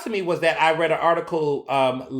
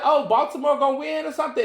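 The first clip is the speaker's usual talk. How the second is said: mock casual cheer; 9 semitones higher than usual. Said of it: "I was like".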